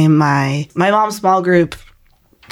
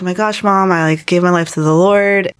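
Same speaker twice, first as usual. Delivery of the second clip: retold excitement; 2 semitones higher than usual. Telling mom she gave her life to the Lord, retold excitement. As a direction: recount gushing to mom, lightly. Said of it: "I was so excited".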